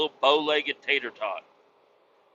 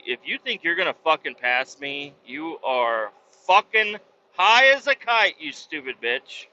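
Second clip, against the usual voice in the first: cursing out a truck driver who tries to pass; angry at driver. Real, not acted. Driver yelling at a trucker trying to pass, real road rage.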